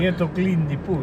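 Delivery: mock Brazilian accent; continue the bad Brazilian accent; stereotypical accent. Co-host playing a pool cleaner, mock Brazilian accent. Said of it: "It's a stereotypical sort of".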